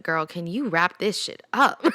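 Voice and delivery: quoting him through a laugh; amused retelling of his teasing. Retold or imitated.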